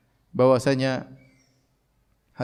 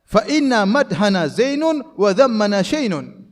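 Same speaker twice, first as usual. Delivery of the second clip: boastful; 4 semitones higher, 5 dB louder, slower than usual. Retold or imitated. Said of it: "dia sesumbar".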